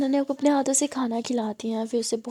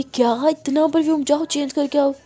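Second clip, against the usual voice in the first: annoyed complaint; 2 semitones higher, 5 dB louder than usual. Acted. Mother annoyed by perfume.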